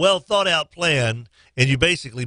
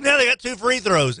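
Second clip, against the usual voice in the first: exasperated; 9 semitones higher than usual. Retold or imitated. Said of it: "I'm like".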